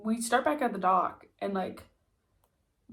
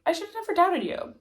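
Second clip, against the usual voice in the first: mock praising Hendrix; 8 semitones higher, faster than usual. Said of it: "Hendrix is like".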